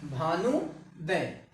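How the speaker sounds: भानुदय drawn out slowly, syllable by syllable; slow demo. Shown as a demonstration. Teacher to students, slowly spelling out भानुदय. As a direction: stretch भानुदय so students hear the long vowel. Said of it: "इस तरीके से".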